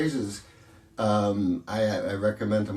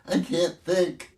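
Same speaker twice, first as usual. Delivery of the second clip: imitating giddy laughter; 8 semitones higher, slower than usual. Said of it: "And he starts laughing".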